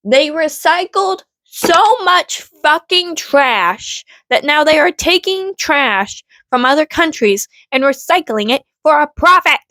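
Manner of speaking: astonished, emphatic explanation; incredulous rant. Real, not acted. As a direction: hammer home how unbelievable it is.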